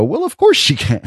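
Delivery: high-pitched mock reaction; acted self-quote. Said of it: "And I go".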